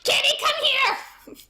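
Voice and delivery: high, drawn-out call; calling a cat. Real, not acted. Speaker to the kitty, high stretched-out calling. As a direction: sing it out to fetch a pet.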